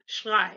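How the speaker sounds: Schrei ending like "eye"; German EI sound. Shown as a demonstration. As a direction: model Schrei with EI as in "buy". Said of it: "pronounced like I".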